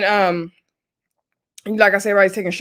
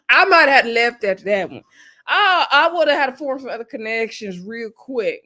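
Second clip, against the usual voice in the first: laughing through words; 3 semitones higher, 3 dB louder than usual. Real, not acted. Reacting to a harsh line.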